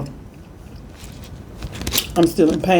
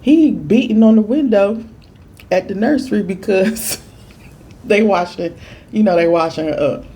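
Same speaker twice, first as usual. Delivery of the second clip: mama reporting; 5 semitones higher than usual. Retold or imitated. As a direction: tell it like mom's excited report. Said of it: "She talking about some".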